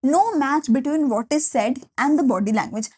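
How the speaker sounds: very slow, word by word for notes; slow dictation. Shown as a demonstration. Teacher dictating a definition to students, very slowly. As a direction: spell it out so they can write. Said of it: "dictating definition".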